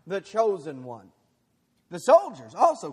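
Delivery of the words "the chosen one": high, loud mocking sneer. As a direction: scoff at him from above. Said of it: "the rulers even sneered at him".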